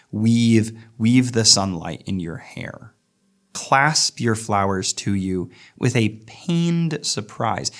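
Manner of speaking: slow, measured reading of the verse; poem reading. Acted. Lecturer reading the Eliot poem to the class, measured and slow. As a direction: let each line of the poem breathe.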